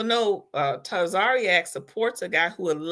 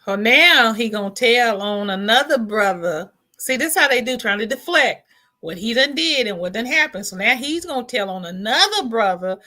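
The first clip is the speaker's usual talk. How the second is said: outraged call-out; 2 semitones higher, 5 dB louder than usual. Real, not acted. Outraged at him telling on brother.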